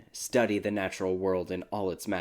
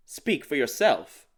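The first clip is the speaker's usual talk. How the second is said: mumbled; 7 semitones higher, 6 dB louder, slower than usual. Acted. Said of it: "mumbled the disembodied voice".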